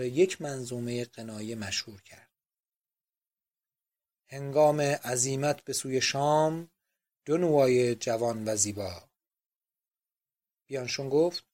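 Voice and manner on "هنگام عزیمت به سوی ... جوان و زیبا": slow, drawn-out verse recital; comic recitation. A narrator's reading. Museum clerk reciting a famous lyric poem, comically. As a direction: declaim the lines slowly, mock-lyrical.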